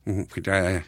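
soft, sneaky shark pretending; land shark voice. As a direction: coax her to open the door. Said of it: "did the shark voice".

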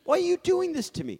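high, loud mock anguish; mock despair. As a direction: wail it in fake despair. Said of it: "mock exasperated outburst".

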